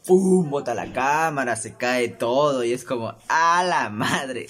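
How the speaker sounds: loud, slow outburst; losing it. Pretend. Imagining knocking over the camera in a loud slow outburst. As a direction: let it all blow up at once. Acted unconscious snap, smashing things.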